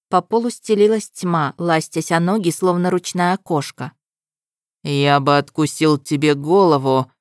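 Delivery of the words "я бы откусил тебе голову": low menacing growl. Acted. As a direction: growl it through bared fangs. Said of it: "прорычал он". (низкое рычание)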